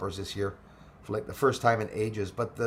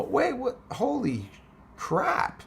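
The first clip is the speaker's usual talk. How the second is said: real astonishment; 12 semitones higher, much slower than usual. Real, not acted. Streamer reading news of fires in the States, stunned. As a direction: voice jumps much higher in disbelief. Reacting to fires reaching USA.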